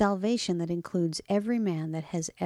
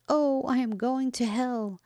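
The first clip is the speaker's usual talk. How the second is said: higher-pitched, lightly voiced wail of despair; understated lament; 6 semitones higher than usual. A narrator's reading. Another parishioner fearing hell, mildly lamenting. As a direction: lament it, held in by the narration. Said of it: "Another lamented".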